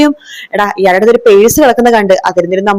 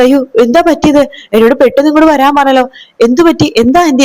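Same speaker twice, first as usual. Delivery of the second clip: higher, fast worried questions; anxious alarm; 4 semitones higher than usual. Acted. Sarayu arriving home, asks the aunt in high alarm. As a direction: burst in asking what happened.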